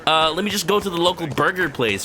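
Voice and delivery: high mock Kiryu voice. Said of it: "And Kiryu's like".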